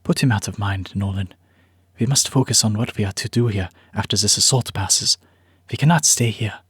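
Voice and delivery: put-on light German accent, calm and steady; a hint of a German accent, measured; Ezrin German accent. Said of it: "He said with a thick German accent".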